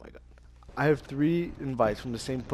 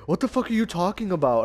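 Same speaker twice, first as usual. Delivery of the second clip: higher, louder imitation of an annoyed friend; mock indignant; 6 semitones higher, 6 dB louder than usual. Retelling a teammate's comeback in an argument, mock indignant. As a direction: retort in mock outrage.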